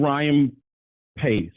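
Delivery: slowly says "Ryan" then drops on "Pace"; hesitating, reaching for the GM's name and landing on "Pace"; wrong name. Real, not acted. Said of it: "sorry, wrong G M".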